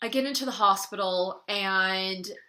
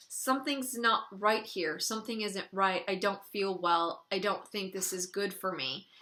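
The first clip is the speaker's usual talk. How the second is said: calm. Retold or imitated. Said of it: "I said to him very calmly".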